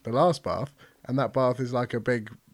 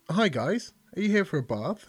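Australian receptionist; 6 semitones higher than usual. Acted. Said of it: "Is she Australian?".

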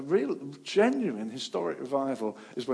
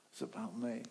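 quiet admission; 8 dB quieter than usual. Retold or imitated. Jonah repeats his confession softly. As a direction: say it quietly, owning it.

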